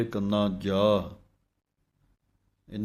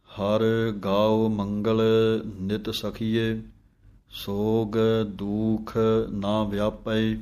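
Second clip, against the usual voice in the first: slow chanted reading of the hymn; scripture recitation; much slower than usual. Shown as a demonstration. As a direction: recite the verse slowly and devoutly.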